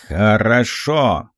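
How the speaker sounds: slow, ponderous riddle-master head; talking head. A narrator's reading. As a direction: drag the word out like a huge creature. (тягучий голос говорящей головы)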